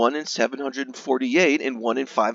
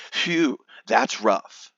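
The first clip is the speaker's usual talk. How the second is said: slow exasperated phew; much slower than usual. Acted. Reacting to a terrible drop rate.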